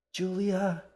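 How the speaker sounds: a frustrated, pained groan of her name; exasperated groan. Acted. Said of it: "Assam groaned".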